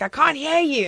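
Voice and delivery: shouting up to be heard; calling out across the house, retold; yelling downstairs. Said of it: "I was like".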